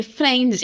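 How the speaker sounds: Friend said with a Brazilian accent. Shown as a demonstration. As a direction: Friend said the way beginners say it. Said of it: "tentando falar o friend".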